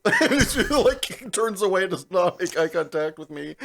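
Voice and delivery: telling it through open laughter; laughing. Real, not acted. Laughing while telling the story.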